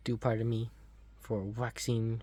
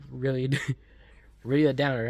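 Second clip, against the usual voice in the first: laughing through the words, louder and fast; 5 dB louder, faster than usual. Real, not acted. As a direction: laugh it out at the gloomy remark. Laughs at the teacher's line.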